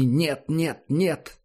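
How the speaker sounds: rising panicked cries of no; desperate cries. Acted. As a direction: cry out to stop it. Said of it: "с криками". (отчаянные крики)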